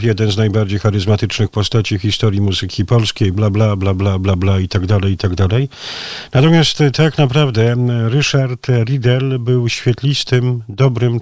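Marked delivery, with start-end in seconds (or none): 0.0-5.7 fast, monotone run through stock phrases; dismissive rattling-off. Acted. Radio host skimming the clichés of an anniversary tribute, dismissive rattle. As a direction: reel it off like a tired formula.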